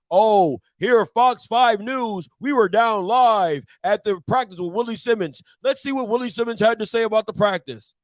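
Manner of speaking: lightly voiced TV news intro; a hint of a bland newscaster; mock news anchor. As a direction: imitate a polite local news anchor. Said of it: "Some cordial interview".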